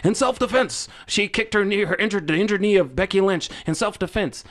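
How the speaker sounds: high-pitched mock commentary quote; imitated TV commentator. Co-host quoting the repeated replay commentary, high mock announcer. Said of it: "they repeatedly kept saying it".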